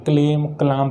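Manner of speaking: "क्लेम", then "क्लाम", both with an L; common mispronunciations. Retold or imitated. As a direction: imitate misreadings "क्लेम, क्लाम" with L sounded. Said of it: "बहुत सारे लोग इसको क्या पढ़ते हैं". ("क्लेम, क्लाम" में ल बोलकर गलत उच्चारण)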